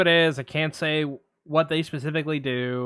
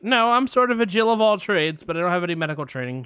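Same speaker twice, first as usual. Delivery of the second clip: receptionist; 3 semitones higher, faster than usual. Retold or imitated. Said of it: "I'm gonna play both parts".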